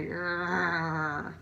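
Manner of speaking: snarling through bared teeth; short teeth-baring snarl; gnashing teeth growl. Shown as a demonstration. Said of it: "that's a gnashing teeth sound".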